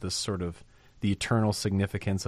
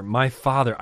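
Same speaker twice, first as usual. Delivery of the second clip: tender address; 3 semitones higher, 4 dB louder than usual. Acted. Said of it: "I love that".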